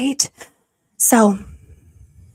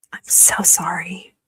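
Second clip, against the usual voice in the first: whispered condolence; slower than usual. Real, not acted. Viewer's brother was killed.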